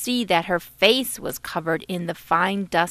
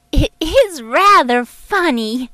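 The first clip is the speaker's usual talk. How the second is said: through giggles; 7 semitones higher, 7 dB louder than usual. A narrator's reading. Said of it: "Dusty said through her giggles".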